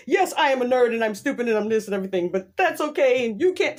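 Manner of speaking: a hint of a timid nerd, quick; lightly voiced nerd apologizing; meek nerd voice. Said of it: "standing up for himself like".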